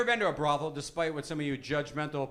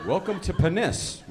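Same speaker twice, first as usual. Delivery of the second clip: mock maitre d'; 6 dB louder than usual. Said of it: "Sounds like a nice restaurant".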